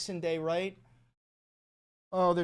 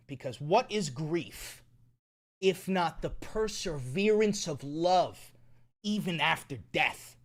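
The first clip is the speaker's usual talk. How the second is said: slow, tender, sincere delivery; gentle consolation; 4 semitones lower, 3 dB quieter, slower than usual. Real, not acted. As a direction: console a grieving friend, taking your time. Consoling viewer about dead cat.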